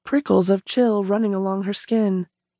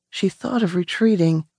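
ordinary delivery

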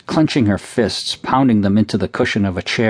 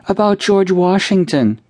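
put-on sobbing child; 11 semitones higher than usual. A narrator's reading. Cindy crying to her mother about George Washington, wailing. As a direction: wail it out in grief.

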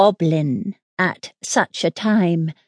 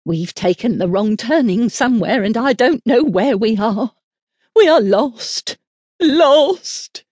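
wild, terrified cry; 5 semitones higher, 3 dB louder than usual. A narrator's reading. Nurse realising they have lost the way, wailing in terror. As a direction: panic rising to a loud, high wail. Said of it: "looked wildly about her, gave a great cry".

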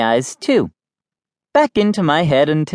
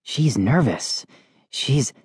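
soft, low, slow commentary; sports announcer; 3 semitones lower, 5 dB quieter, slower than usual. A narrator's reading. Kid commentating on sister's nerves, hushed mock announcer. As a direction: hush it like a tense commentator. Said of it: "I spoke into my paddle".

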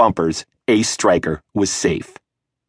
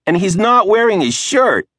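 put-on higher, louder small-girl tattling shout; little sister shouting; 12 semitones higher, 3 dB louder than usual. A narrator's reading. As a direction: call it out to Mom like a gleeful tattler.

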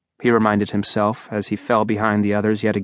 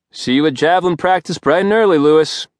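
brusque dismissal; 5 semitones higher than usual. Acted. Teacher dismissing Simon brusquely.

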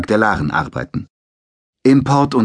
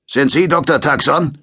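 a hint of a smug sergeant, higher; grinning soldier; 6 semitones higher, 3 dB louder than usual. A narrator's reading. Sergeant greets the doctor at his door, lightly smug. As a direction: voice the grin of a lightly played sergeant. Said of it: "grinste und sagte".

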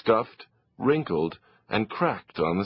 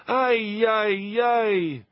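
exasperated sigh; 11 semitones higher, much slower than usual. Acted. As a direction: despair at the empty fridge. Mother sighs at fridge.

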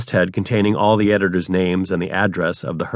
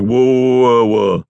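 mock garbled whoa; 2 semitones higher, 4 dB louder, much slower than usual. Retelling the Miracle Worker scene, a mild mock garbled whoa. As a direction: garble "whoa" like a half-formed word. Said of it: "like that scene at the end of The Miracle Worker".

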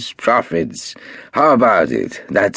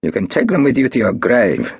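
higher, louder hard threat; Marcus, threatening; 10 semitones higher, 3 dB louder than usual. A narrator's reading. Marcus threatening Golda over the shares, hard and loud. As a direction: turn nasty, raise your voice.

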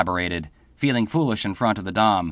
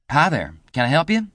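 pleasant; 6 semitones higher than usual. Acted. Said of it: "she asked pleasantly".

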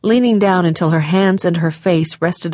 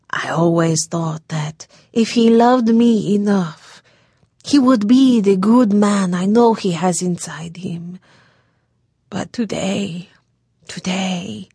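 tearful. A narrator's reading. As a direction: falter through tears. Tearful daughter confesses.

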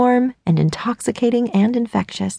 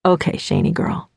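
softer, lower cocky guy; teasing young man; 5 semitones lower, 3 dB quieter than usual. Acted. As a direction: lean in and tease her name. Dean's quieter teasing address.

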